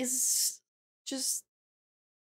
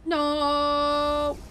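long held, higher "no"; drawn-out wail of no; 4 semitones higher than usual. Real, not acted. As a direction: wail it on one held note. Dismay at boss attack.

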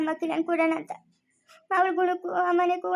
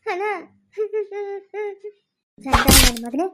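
angry curse; 3 semitones higher, 4 dB louder than usual. Acted. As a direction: explode at the culprit. Brother curses on learning of marriage.

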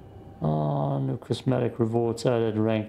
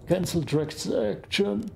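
slow, higher mock announcer read; 7 semitones higher, slower than usual. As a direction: announce it like a stiff system voice. Reading game button aloud.

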